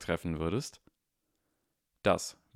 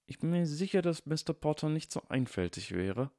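higher, prim henchman voice; 9 semitones higher than usual. Acted. Second henchman reassures his partner in a higher voice. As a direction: sound smugly certain as a dim thug.

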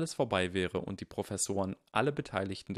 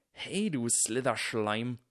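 slow, higher-pitched insulting yell; shouting; 4 semitones higher, slower than usual. A narrator's reading. Ernie insults Goyle in front of everyone, shouting. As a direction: call out the insult, drawn out. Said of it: "schrie Ernie".

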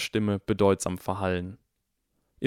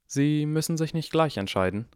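calmer tone; 8 semitones higher than usual. A narrator's reading. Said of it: "in einem ruhigeren Tonfall".

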